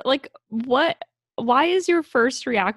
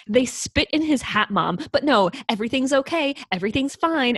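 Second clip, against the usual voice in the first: raised-pitch retold exasperation; exasperated retort; 5 semitones higher, 3 dB louder than usual. Daughter brushing off her mom, exasperated.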